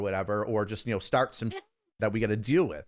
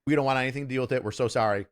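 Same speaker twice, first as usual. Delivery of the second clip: mock apologetic backing off; 6 dB louder than usual. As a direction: imitate hostile people suddenly backing down. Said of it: "they went from, like, super hostile to".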